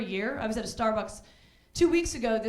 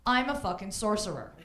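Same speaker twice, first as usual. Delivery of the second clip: mock amazed; 5 semitones higher, 5 dB louder than usual. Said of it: "He's like".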